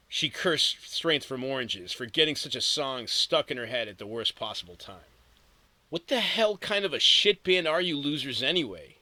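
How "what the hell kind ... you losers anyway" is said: higher, louder annoyed rant; groaning complaint. Acted. Girl cursing the band in her head, annoyed and loud. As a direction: snap at the song stuck in her head. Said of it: "she groaned".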